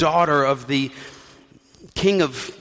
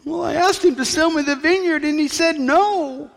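whiny Ahab; 12 semitones higher than usual. Acted. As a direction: whine it up high like a sulking child. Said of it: "he's whining about Naboth's vineyard".

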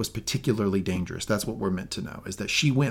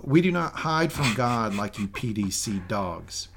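lightly voiced Southern accent; slower than usual. Quoting the Southern villain.

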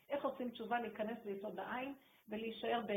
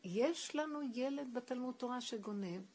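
slow, drawn-out mock outcry; retold shouting; 2 semitones higher, 3 dB louder, slower than usual. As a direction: mildly imitate a rabbi crying out, stretching the words. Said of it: "הוא היה ככה צועק".

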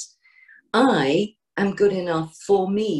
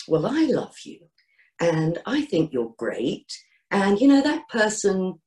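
encouraging loving voice. Shown as a demonstration. Comforting a bullied child, mildly encouraging and loving. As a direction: soothe a hurt child you love. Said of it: "you'd say it in an encouraging voice".

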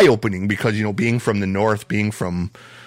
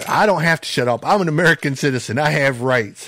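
higher-pitched retold backtalk; mildly defiant; 4 semitones higher, faster than usual. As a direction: talk back like a cocky young man, held in check. Cousin talks back to sheriff.

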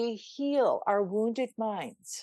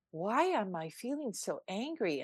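puzzled self-question; 6 dB quieter than usual. Retold or imitated. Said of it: "And then I went".

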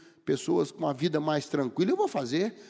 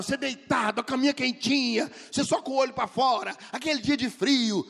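higher, hammed-up storytelling voice; teacher's dramatic narration; 6 semitones higher than usual. Preacher mimicking his teacher's cozy morning tale, hammed-up and high. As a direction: sell the warm bed like a drama. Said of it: "Ele falava".

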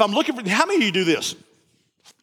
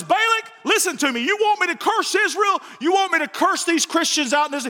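high, raised prophet's voice with a shout on curse Israel; Balaam pleading; 6 semitones higher than usual. Retold or imitated. Balaam challenges King Balak, raised and half-shouting. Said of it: "Balaam says".

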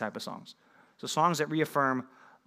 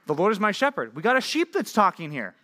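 higher, mock-literal reading of the verse; mock naive reader; 5 semitones higher than usual. Shown as a demonstration. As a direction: read it like someone who takes it literally. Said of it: "if I just am going to the Bible and I don't know what I'm reading".

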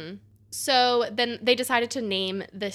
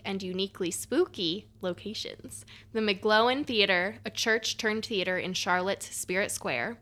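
dramatic intro read; spooky story reading. Acted. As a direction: read it like a spooky tour host. Reads the spooky intro script.

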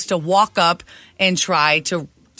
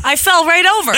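laughing through the words; 11 semitones higher, 5 dB louder, faster than usual. Real, not acted. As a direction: giggle while you say it. Laughing while telling.

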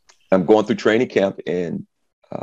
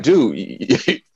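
higher, laughing mock disbelief; incredulous teammates; 4 semitones higher than usual. Teammates ribbing the rookie, high and laughing. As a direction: tease him like he's only there for autographs. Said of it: "they're like".

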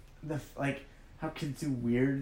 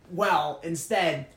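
mock eager suggestion; much slower than usual. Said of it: "you're like".

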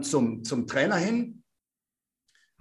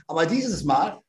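ordinary delivery

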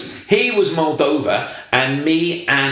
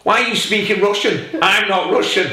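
put-on Eastern European accent; 8 semitones higher than usual. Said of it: "he did have an Eastern European tang".

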